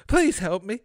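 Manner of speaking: high-pitched little man's plea; little man pleading. Acted. Trapped little man begs Fred for help, high plea. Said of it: "the little fat man said".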